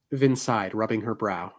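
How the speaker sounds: measured novel reading voice; story narration. A narrator's reading. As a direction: read it like an audiobook. Reads novel aloud.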